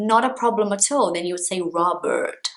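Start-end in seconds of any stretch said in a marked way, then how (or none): 1.6-2.5 "Robert" with an American R in the middle; American accent. Shown as a demonstration. Teacher attempting an American accent on "Robert". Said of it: "If you're speaking with an American accent".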